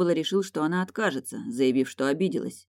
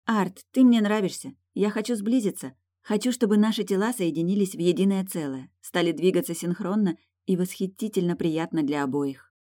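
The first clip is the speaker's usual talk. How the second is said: wife voice; 4 semitones higher than usual. Acted.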